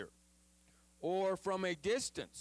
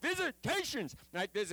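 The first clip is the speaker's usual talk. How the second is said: excited; 4 semitones higher than usual. Retold or imitated. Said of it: "he's all excited".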